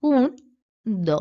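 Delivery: কুন then দ, split by a pause; teacher splitting কুন্দ into কুন and দ; syllables spelled out. Shown as a demonstration. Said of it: "দল বিশ্লেষণ করি".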